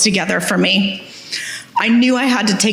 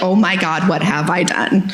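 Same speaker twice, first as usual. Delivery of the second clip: sinking dread; 2 semitones lower than usual. Retold or imitated. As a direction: let the doubt drag the words down. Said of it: "The next minute you're like".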